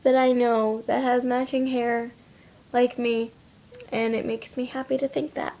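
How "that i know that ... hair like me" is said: high, giddy little laugh-voice; giddy self-quote. Retold or imitated. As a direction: gush like you just spotted a twin. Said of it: "I'm always just like".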